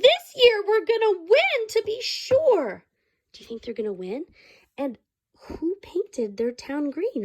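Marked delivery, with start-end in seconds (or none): 0.0-2.8 high, jubilant cheer; crowd cheering. Acted. The people of Tralee cheer over their green town, high and jubilant. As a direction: cheer it out like a whole celebrating town. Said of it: "shouted and cheered and whooped and hollered".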